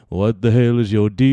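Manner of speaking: loud mock outburst; mock yell. Streamer yells at imaginary haters in a mock shout. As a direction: shout it in hammed-up offense.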